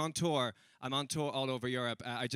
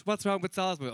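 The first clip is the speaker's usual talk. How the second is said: higher-pitched, puzzled protest; taken aback; 6 semitones higher, 3 dB louder than usual. Retold or imitated. Comedian questioning his friends' reaction to Salzburg, taken aback. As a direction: push the question up in surprise.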